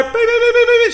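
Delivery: very high, loud electronic beeps; imitated doorbell beeps. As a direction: mimic the doorbell going off again and again. Woman pounding the doorbell.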